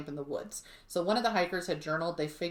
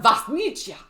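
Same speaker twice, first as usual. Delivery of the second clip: higher, louder mock Russian phone greeting; imitating dad on the phone; 6 semitones higher, 10 dB louder than usual. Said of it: "he would answer the phone".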